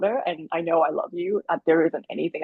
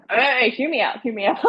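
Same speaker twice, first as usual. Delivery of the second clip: retold plea; 7 semitones higher than usual. Retold plea after a shocked reaction.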